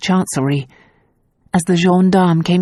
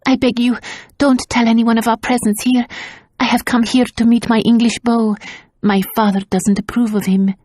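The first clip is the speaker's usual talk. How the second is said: put-on much higher pleading girl voice; breathless plea; 6 semitones higher than usual. A narrator's reading. Tazia faking dismay to the gendarme, higher pleading. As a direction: plead with feigned distress.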